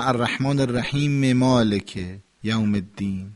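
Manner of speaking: الرحیم ends in a clear short "e" into مالک; final vowel linked. Shown as a demonstration. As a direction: sound the last vowel of الرحیم, joining the verses. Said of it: "باید این حرکات آخر رو بگیم".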